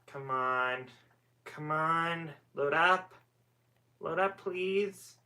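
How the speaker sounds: coaxing, rising plea; pleading with a machine. Real, not acted. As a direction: beg the screen to load, drawn out. Begging the slow Wi-Fi to load.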